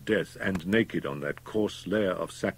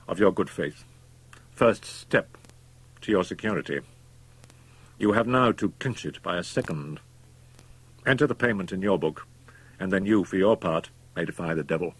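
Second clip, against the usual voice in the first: cold, reasoning doctor; 3 semitones higher, 3 dB louder than usual. Acted. MacFarlane's held voice.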